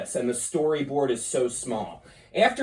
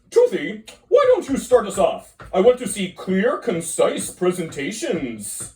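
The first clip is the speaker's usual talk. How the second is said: teacher voice. Acted. Teacher character calls on Toothy.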